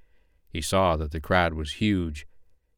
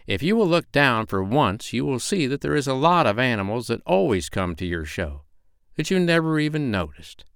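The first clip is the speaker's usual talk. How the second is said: lightly voiced, higher owl; lecturing owl; 5 semitones higher than usual. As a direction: gently scold as a storybook owl.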